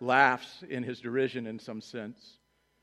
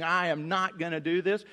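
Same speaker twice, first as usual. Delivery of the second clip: mock child; 4 semitones higher than usual. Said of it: "The five-year-old saying".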